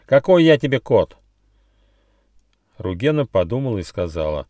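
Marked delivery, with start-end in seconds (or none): 0.1-1.2 high, loud offended protest; outraged little squirrel; indignant retort. A narrator's reading. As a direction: snap back, affronted. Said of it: "от возмущения даже ответил в рифму".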